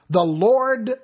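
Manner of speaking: first "Lord" called out high and loud; proclaimed. Acted. God proclaiming His name before Moses, high and loud.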